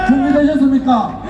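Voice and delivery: calling out to the crowd; rousing question to the crowd. Real, not acted. Rally leader calling to the crowd.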